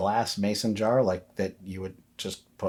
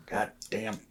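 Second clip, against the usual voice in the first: Southern cursing; 3 semitones higher than usual. Acted. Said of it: "the accent shows up when he's pissed".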